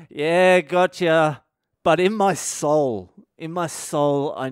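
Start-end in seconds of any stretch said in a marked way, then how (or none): 0.1-1.4 tag. Retold or imitated. Repeats his faked playing along.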